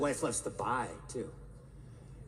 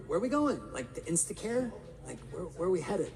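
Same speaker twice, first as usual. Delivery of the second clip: baffled husband. Retold or imitated. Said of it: "And I'm like".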